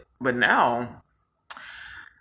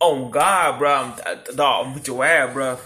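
tough-guy voice; 4 dB louder than usual. Retold or imitated. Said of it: "my defense mechanism is to sound tough".

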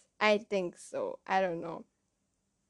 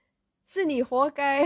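put-on Malaysian accent; 4 semitones higher, 6 dB louder than usual. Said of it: "my Malaysian accent come out".

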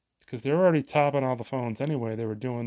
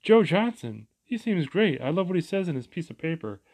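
mock-impressed, higher and louder; sarcastic gushing; 6 semitones higher, 5 dB louder than usual. Annoyed voter mocking a political mailer, sarcastic gushing. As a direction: fake delight over a campaign flyer, hammed up a little. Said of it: "I'm gonna go".

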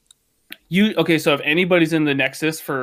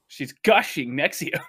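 laughing. Real, not acted. Giggling at innuendo joke.

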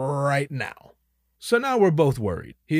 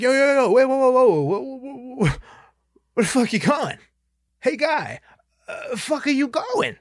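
high, loud yelling across the terminal; frantic high yell of whoa whoa whoa; calling out after him; 9 semitones higher, 4 dB louder than usual. Retold or imitated. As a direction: shout after a friend heading the wrong way. Calling after friend walking away.

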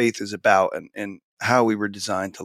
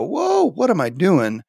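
slow, higher-pitched mock alarm; acted realisation; 7 semitones higher, slower than usual. Teacher voicing a burned-out colleague, acted realisation. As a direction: act out waking up to a problem, drawn out. Acts out listener's sudden realisation.

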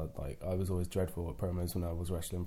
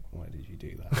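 whispered self-judgement; 3 semitones lower than usual. Retold or imitated. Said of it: "I'd be like".

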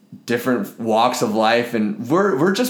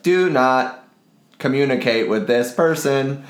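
robot voice; 3 semitones higher, slower than usual. Retold or imitated. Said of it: "The robot's like".

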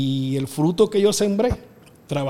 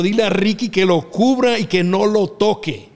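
raised, louder voice, insistent; retold urgent order; 4 semitones higher, 5 dB louder than usual. Promoter telling referee what Ricky must do, urgent raised voice. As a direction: re-enact barking instructions over a noisy crowd.

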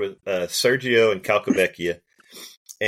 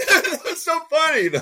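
stifled giggle; slower than usual. Retold or imitated. Suppressed laugh quote.

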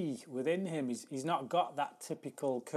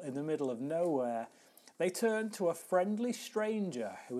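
film-trailer style reading with sweeping intonation; announcer-like blurb, slowing and dropping on the last words; dramatic synopsis read; 2 semitones higher, 3 dB louder than usual. Acted. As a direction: read it out theatrically, punching key words.

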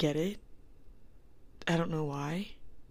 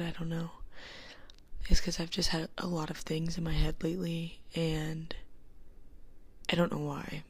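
whispering. Real, not acted. Whispers to avoid being overheard.

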